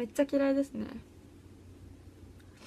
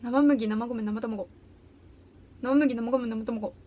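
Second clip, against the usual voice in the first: careful tongue-twister recital; tongue twister done as a little test; 2 semitones lower, slower than usual. Shown as a demonstration. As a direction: rattle off a tongue twister on request. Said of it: "早口言葉言える".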